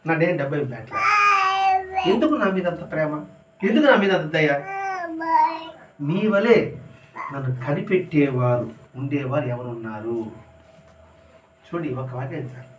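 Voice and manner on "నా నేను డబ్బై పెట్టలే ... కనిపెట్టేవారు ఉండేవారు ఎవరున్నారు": tearful plea. Acted. Devotee weeping before Baba.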